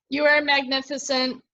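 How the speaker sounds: measured open mic poem delivery; poetry reading. Acted. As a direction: give each line weight, like spoken word.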